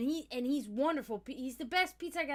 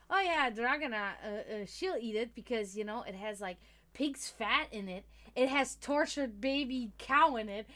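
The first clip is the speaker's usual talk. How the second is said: imitated joker, louder as it builds; teasing mock sympathy; 5 dB louder than usual. Cook teasing vegetarian coworker about food, mock sympathy. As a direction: rub it in playfully, stretching the last part. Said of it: "trying to be sympathetic and trying to be cute and funny".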